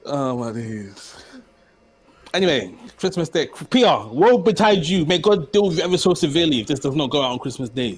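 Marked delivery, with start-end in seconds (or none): 3.7-8.0 mock solemn curse in an African accent. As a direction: put on an African accent for the warning. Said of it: "You sound so African right there".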